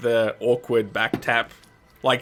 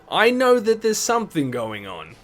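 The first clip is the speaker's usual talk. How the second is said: insistent; 10 semitones higher, 5 dB louder than usual. Acted. Shopkeeper insists.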